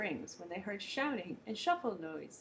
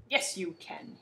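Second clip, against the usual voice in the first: bawl; 3 semitones lower, slower than usual. Acted. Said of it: "he bawled".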